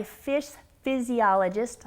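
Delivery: careful, deliberate articulation of a tongue twister; slow and careful. Real, not acted. Host introducing a guest's tongue-twister job title, slowly and carefully. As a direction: say it slowly so as not to trip. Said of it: "I have to, to say that very slowly".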